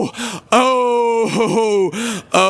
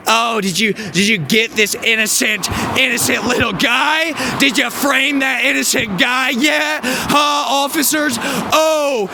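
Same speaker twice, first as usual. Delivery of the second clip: mocking the lady. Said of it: "She's like".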